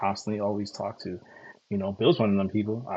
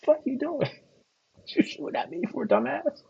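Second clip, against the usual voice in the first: imitating an action hero. Retelling Blade's scene to stream viewers, hammed-up high shout. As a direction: throw the line like the hero mid-fight. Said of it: "It's like".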